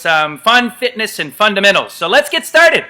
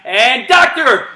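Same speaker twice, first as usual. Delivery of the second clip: louder, slow call; called-out command; 4 semitones higher, 5 dB louder, much slower than usual. Real, not acted. Coach calling the doctor command: slow, louder call. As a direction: draw out the command.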